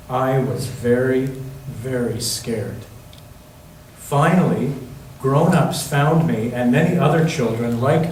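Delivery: gentle storybook reading voice; reading to children. Acted. Pastor reading a picture book to the children, gentle storytelling. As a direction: read it like a bedtime picture book for the kids.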